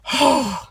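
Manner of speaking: high acted gasp; theatrical intake of surprise; shocked gasp. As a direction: let out a breathy gasp of disbelief. Acts out being shocked.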